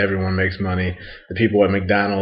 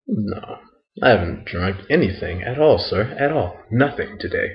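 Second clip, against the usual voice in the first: softer, mock-polite denial to a bouncer; feigned innocence; 2 semitones higher, 3 dB quieter than usual. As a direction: play sober and innocent, keeping it soft. Playing sober and polite to bouncer.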